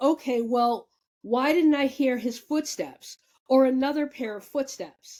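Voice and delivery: ordinary talk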